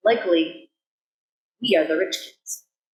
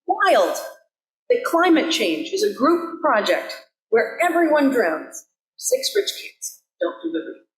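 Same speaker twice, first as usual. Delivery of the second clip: higher, amazed re-read of the quote; incredulous; 5 semitones higher than usual. Shown as a demonstration. Minister rereading the quote to the congregation, incredulous and higher. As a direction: read it again like you can't believe it. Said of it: "'cause, like, wow".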